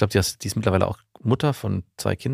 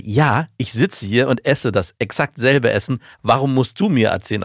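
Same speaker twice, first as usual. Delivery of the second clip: annoyed retort; 2 semitones higher than usual. Retold or imitated. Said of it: "Ich sage".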